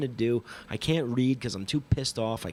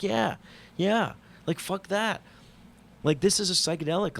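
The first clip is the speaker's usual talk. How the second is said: fired-up agreement; 8 semitones higher than usual. Retold or imitated. Agreeing with McKenna in his head.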